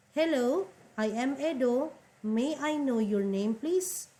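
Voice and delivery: high, bright model reading of a dialogue line; teacher voicing a character in a textbook dialogue; reading a dialogue role. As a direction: read the man's line as a class example. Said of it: "the dialogue is between two men".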